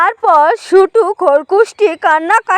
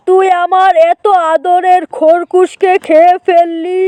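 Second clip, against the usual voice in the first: mildly angry uncle. Acted. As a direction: play an uncle confronting the wicked jackal.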